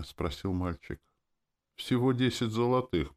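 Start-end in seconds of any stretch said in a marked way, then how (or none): none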